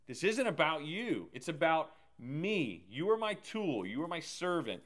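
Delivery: firm and steady, each word set down; firm God voice. Retold or imitated. God telling Moses firmly it's about him, firm. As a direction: lay down the law calmly as God. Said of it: "very firmly say".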